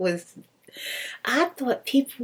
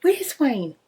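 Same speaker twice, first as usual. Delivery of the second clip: demanding wife; 6 semitones higher, 6 dB louder, slower than usual. Retold or imitated. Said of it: "She said".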